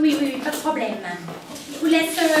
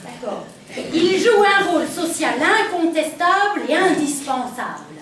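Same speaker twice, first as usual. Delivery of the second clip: sensual voice. Acted. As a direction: read it like a hotline purr. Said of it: "La voix sensuelle?".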